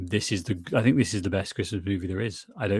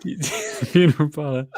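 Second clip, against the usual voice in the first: laughing; 5 semitones higher, 5 dB louder than usual. Real, not acted. Both laughing at quoted line.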